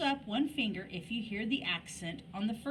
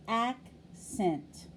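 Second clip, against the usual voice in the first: "accent" with AC longer, louder and higher; stress on first syllable. Shown as a demonstration. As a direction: split "accent" in two, punching AC. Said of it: "we said the first syllable longer and louder and higher".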